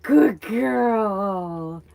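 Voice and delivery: high, loud cooing praise; praising pet voice. Real, not acted. To her cat after a jump, high loud cooing praise. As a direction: coo it up high like praising a dog.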